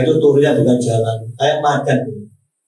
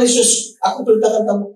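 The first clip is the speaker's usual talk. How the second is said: commanding prayer; 9 semitones higher than usual. Retold or imitated. Pastor commands the spirit.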